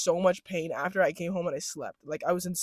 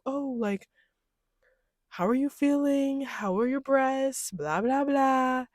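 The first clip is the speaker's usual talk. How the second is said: higher-pitched, lightly imitated doctor; friendly doctor; 7 semitones higher, slower than usual. Doctor asking about a patient's breasts, imitated as friendly. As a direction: mimic a kindly doctor's sing-song questions. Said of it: "he was very friendly".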